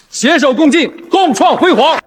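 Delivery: high, rousing toast-like finish; 致辞收尾. Acted. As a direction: proclaim it to the whole hall. Father ends public wedding announcement. (高声激昂地宣告收尾)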